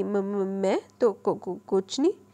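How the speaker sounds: slow, halting, flustered stutter; nervous stammer. Acted. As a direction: trip over the words in a fluster. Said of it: "گھبراتے ہوئے لہجے میں". (گھبرایا ہوا، اٹکتا ہوا لہجہ)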